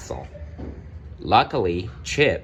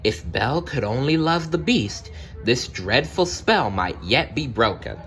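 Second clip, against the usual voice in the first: voiced Cogsworth; 4 semitones higher than usual. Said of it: "Cogsworth whispered".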